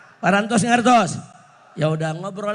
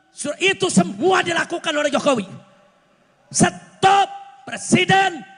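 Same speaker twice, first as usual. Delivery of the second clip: raised, emphatic political sermon voice; fiery rally oratory; 7 semitones higher than usual. Real, not acted. Preacher urging the president before a rally crowd, fiery oratory. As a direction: drive each phrase home to the crowd.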